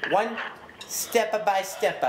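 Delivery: walk him through it very slowly; drawn-out, deliberate explaining; slow, patronising. Pretend. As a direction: STEP BY STEP slowly, word by word. Spells out instructions to clerk.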